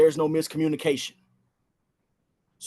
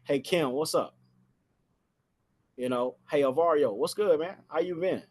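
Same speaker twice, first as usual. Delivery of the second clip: like a friend; 4 dB quieter than usual. Shown as a demonstration. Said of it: "I sound just like somebody that they know".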